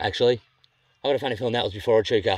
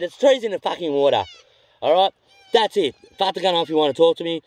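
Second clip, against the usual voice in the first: higher, louder heated comeback; 5 semitones higher, 3 dB louder than usual. Retold or imitated. Fisherman arguing with landowner over trees in the water, heated. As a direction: shut the argument down hard.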